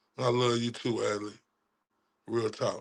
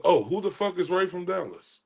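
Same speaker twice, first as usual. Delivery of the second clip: higher-pitched mocking quote; mimicked disbelief, raised in pitch; mimicking her; 4 semitones higher than usual. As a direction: parrot her dismissive question, pitched up. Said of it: "She said she didn't know who I was".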